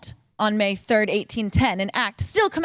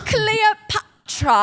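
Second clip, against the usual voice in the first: dramatic reveal; 9 semitones higher, much slower than usual. Acted. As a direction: unveil each name slowly.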